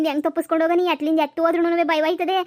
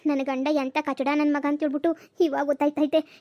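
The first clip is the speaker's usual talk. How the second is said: softer, frightened murmuring with slow stretches; scared in the dark; 4 dB quieter than usual. Acted. Woman left in a dark haunted house mutters softly, frightened. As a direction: creep through the dark house, hushed with fear.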